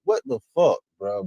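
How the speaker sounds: real shock at the news; shocked disbelief. Real, not acted. Streamer reacts to shocking news.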